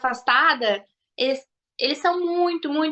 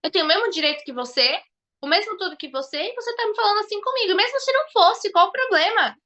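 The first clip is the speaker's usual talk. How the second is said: higher, fast indignant comeback; indignant retort; 5 semitones higher than usual. Retold or imitated. Brazilian woman confronting a rude Portuguese man indignantly. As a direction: put him in his place. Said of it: "eu falei assim pra ele".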